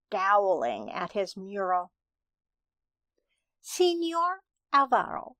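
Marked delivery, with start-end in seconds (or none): 3.6-5.4 put-on high-pitched child's call. A narrator's reading. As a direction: call over to the painter in a higher voice. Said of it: "Maya called".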